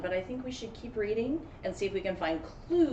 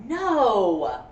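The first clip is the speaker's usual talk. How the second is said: shouted no; 9 dB louder than usual. A narrator's reading. Dramatic interjection in story.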